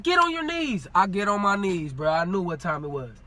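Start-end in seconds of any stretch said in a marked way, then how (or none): 0.0-0.9 retold police order. Officer's order, acted out.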